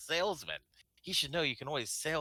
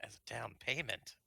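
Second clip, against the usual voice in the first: whispering; 5 dB quieter than usual. Real, not acted. Player echoes DM's offer.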